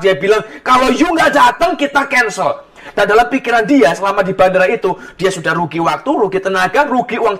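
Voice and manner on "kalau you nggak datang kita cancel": mildly heated mock ultimatum; retold angry threat. Business partner warns absent passenger by phone, retold angry threat. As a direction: quote an annoyed business partner, voice raised at first. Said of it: "partner bisnisnya marah besar".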